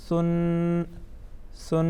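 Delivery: سن with a gentle, lisped th for s; soft th, then a held n in سن; soft tha. Shown as a demonstration. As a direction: chant سن lightly, no whistle in it. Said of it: "نرم پڑھیں گے".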